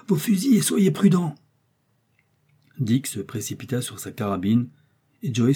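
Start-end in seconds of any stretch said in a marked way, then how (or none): 0.1-1.3 high, urgent warning; raised voice, urgent caution; crying out. A narrator's reading. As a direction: call out a pressing order. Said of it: "s'écria le docteur".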